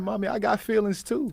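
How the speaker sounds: put-on high, small childish plea; little kid voice. Young son answers his mom after the game, high childish plea. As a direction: pitch way up like a hurt little boy.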